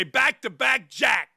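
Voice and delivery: slow, drawn-out mock shout; playful slow shout; retold catchphrase shout. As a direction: bellow it like a trash-talking player. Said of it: "I used to say".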